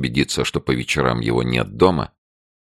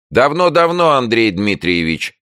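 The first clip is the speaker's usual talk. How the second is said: high, eager, fussy reply; fussing neighbour; 11 semitones higher, 5 dB louder than usual. A narrator's reading. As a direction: hurry to inform on them. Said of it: "засуетились за соседней дверью". (суетливый голос соседки)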